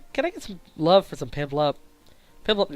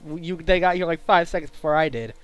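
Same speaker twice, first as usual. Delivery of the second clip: incredulous. Real, not acted. Breaks character to question script.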